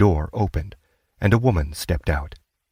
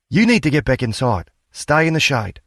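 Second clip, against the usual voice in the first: raised, fussing mother's voice; worried mother; 7 semitones higher than usual. A narrator's reading. Mother fussing at her sick daughter, raised caring voice. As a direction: shoo her back inside.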